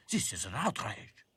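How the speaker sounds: outraged French doll; French-accented protest. A narrator's reading. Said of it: "protested Claude".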